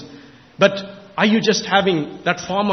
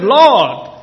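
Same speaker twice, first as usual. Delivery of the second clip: retold prayer; much slower than usual. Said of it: "I cried out to God and said".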